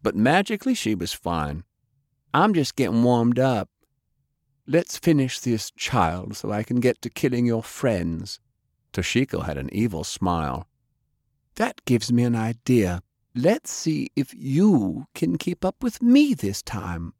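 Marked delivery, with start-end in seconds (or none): 2.3-8.4 lightly voiced assassin, rising to a high boast; mock-superior villain taunt; gloating ninja. Toshiko taunting Faye. 11.5-17.1 lightly voiced assassin, rising to a high boast; mock-superior villain taunt; gloating ninja. Toshiko challenging Faye.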